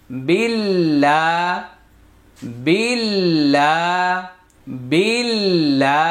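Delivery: বিল্লা with a thin, light ল্ল, drawn out slowly; light lam, slow. Shown as a demonstration. Teacher showing students a light lam, slow and drawn out. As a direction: keep the ল্ল light and stretch it. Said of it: "লামের উচ্চারণ পাতলা হয়".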